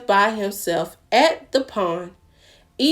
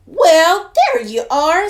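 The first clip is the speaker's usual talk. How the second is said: bright and loud, much higher greeting; high loud cow voice; 8 semitones higher, 7 dB louder, slower than usual. Acted. Cow greets Pig with a high loud call. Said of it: "said Cow".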